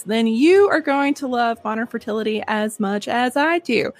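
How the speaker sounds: lively, chatty sponsor read; scripted pitch with personal asides; podcast ad read. Acted. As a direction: sell it to listeners like trusted friends. Reads a sponsor's advertisement.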